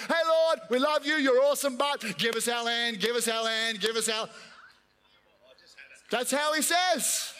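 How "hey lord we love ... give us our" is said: cheeky pleading. Shown as a demonstration. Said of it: "broken record".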